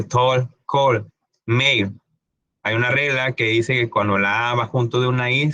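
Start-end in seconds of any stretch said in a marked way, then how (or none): 0.0-2.0 "tall, call" as "tol, col", then "mail" as "meil"; correct English pronunciation. Shown as a demonstration. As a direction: round the vowel in "tall" and "call". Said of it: "Por eso se dice".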